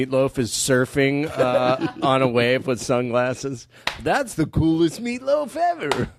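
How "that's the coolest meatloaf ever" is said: much higher, amazed gush; mock amazement. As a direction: gush over the meatloaf. Voicing an impressed diner.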